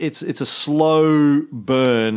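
very slow, stretched emphasis on slow burn; drawn-out emphasis. Real, not acted. Host explaining gradual conversion to his co-host, slow and emphatic. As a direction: draw out slow burn to make the point. Drawing out the point.

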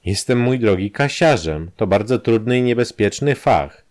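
lightly voiced safecracker, boastful; a hint of a mocking old crony; Kramer's voice.

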